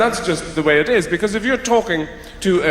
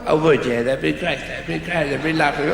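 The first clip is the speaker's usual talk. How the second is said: put-on caricature of an Irish accent; mocking Irish impersonation. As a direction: mimic an Irish person's accent back at them. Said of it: "they impersonate you as they're talking to you".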